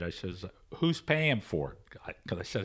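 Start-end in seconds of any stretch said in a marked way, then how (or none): 0.8-2.0 teasing question. Retold or imitated.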